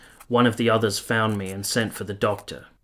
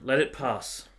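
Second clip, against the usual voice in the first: a frightened lover soothing her through the fit; urgent soothing; 6 semitones higher, 4 dB louder than usual. Acted. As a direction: hold her and calm her urgently. Lover soothing during seizure.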